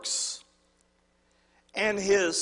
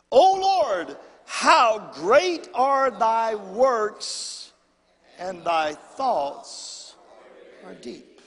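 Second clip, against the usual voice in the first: louder, slower call-and-response reading; reading it again; 3 dB louder, much slower than usual. Shown as a demonstration. Pastor asking the church to read it again, slow and loud. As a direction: push them to read it with him. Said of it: "Let's do it again".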